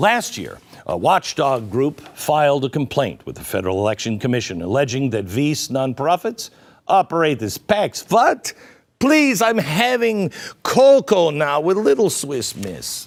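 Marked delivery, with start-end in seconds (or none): 8.1-13.1 fake Russian accent, pitched higher. Mid-report, the speaker makes a joking aside in a put-on Russian accent. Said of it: "I can't do anything but a Russian accent now".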